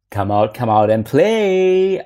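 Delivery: father hamming up a slow, loud big bad wolf. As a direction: cajole like a hammed-up wolf. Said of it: "in the scary voice of the big bad wolf".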